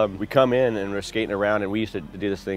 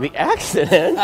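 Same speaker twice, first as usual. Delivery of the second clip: higher, louder, shocked question; 8 semitones higher, 6 dB louder, slower than usual. Retold or imitated. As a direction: gasp out the question in disbelief. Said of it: "I'm like".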